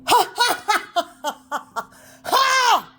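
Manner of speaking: laughter that cracks into a crying shout; laughing into sobs. Real, not acted. Overcome while talking about her music, laughing into tears. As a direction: laugh until it breaks into a sob.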